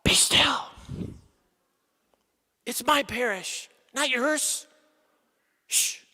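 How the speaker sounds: hushed, steady reassurance; God calmly hushing the anxious priest. Retold or imitated. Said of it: "And he says to me".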